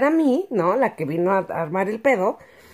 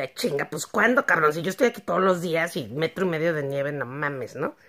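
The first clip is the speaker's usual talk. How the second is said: lower, softer incredulous mutter; disbelieving low grumble; exasperated; 4 semitones lower, 4 dB quieter than usual. Retold or imitated. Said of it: "Y yo".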